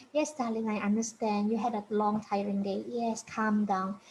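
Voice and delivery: put-on soft, soothing talk to a melting-down child; calm a distressed child gently; soothing parent. Shown as a demonstration. Parent soothing a child in meltdown, softly. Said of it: "talk quietly to this child".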